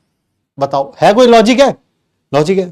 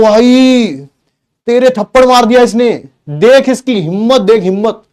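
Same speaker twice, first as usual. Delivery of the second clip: mock provoking taunt, louder and higher; egging on a sibling; 4 semitones higher, 3 dB louder than usual. Boy egging his brother on to hit their sister, mock taunting. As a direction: goad the brother into hitting back. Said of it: "तो मैं कर रहा हूं".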